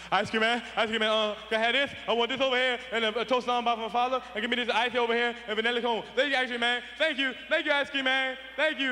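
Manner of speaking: a hint of a breathless kid. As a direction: gush the order out like a winded kid.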